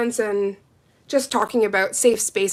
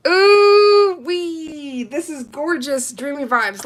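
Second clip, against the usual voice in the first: high delighted squeal; excited gushing; 5 semitones higher, 6 dB louder, slower than usual. Real, not acted. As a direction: gush over the color. Gushing over polish color.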